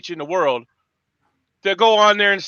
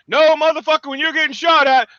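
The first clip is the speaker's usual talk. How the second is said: angry retort; 6 semitones higher than usual. Real, not acted.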